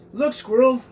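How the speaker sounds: loud, high excited bark. Acted. Oscar the dog spots a squirrel, barking loud and high. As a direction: yap it like a distracted dog. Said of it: "barked Oscar".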